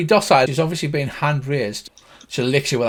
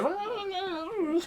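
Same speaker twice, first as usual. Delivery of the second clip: long, high, soft wail; high-pitched drawn-out pained whine; pained cry; 11 dB quieter than usual. Acted. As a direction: draw out a thin high yowl of pain. Acts out nose being cracked.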